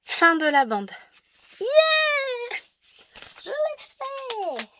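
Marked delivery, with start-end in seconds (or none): 1.6-4.7 high excited yeah; cheering a small victory; triumphant cheer. Real, not acted. Triumphant cry, finally done.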